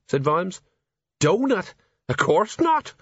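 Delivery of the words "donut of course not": high scoffing Colon. Acted.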